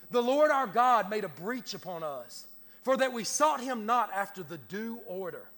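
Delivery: measured, declamatory Bible reading; scripture reading. Real, not acted. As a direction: read the verse out with pulpit weight. Reads scripture aloud from pulpit.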